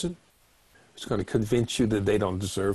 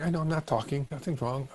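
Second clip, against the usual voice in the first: higher, quieter stonewalling; cold shoulder; 4 semitones higher, 4 dB quieter, faster than usual. Acted. Silent partner answering "you're not talking", cold shoulder. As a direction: refuse to engage, mildly sulky. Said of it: "That's the cold shoulder".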